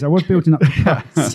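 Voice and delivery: repeated through a laugh; a little laugh through the words. Real, not acted. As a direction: say it again, laughing at yourself. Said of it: "what I'm trying to say".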